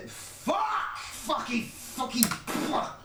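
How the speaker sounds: very high squealed curse; frustrated swearing. Real, not acted. Fluffs the rap again.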